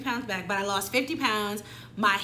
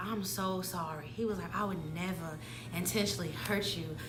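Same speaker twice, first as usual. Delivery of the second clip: mock apology; 3 semitones lower, 10 dB quieter than usual. Voicing the cheater's soft apology.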